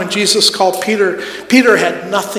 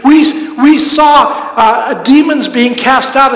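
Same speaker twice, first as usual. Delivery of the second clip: higher, louder, slow excited telling; rejoicing; 4 semitones higher, 4 dB louder than usual. Retold or imitated. Disciples returning to Jesus, rejoicing. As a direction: burst out with joyful news. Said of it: "they come back rejoicing".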